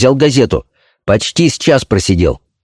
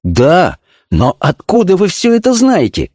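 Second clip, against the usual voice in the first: surprised question, pitched higher; mild surprise; 7 semitones higher than usual. A narrator's reading. Agent asks his chief how he knows it all, surprised. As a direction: ask it with puzzled surprise, voice lifting. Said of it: "Пафнутьев опять удивился".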